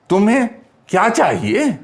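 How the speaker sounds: तुम्हें, short pause, then क्या चाहिए rising as a question; stress on क्या. Shown as a demonstration. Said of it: "क्या पे जोर दे रहे हैं".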